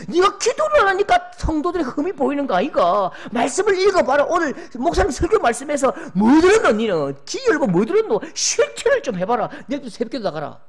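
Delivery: loud, high scolding in Gyeongsang dialect; a hammed-up pious wife scolding her husband; nagging spouse. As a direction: lecture your partner sharply from on high. Preacher acts out a nagging spouse.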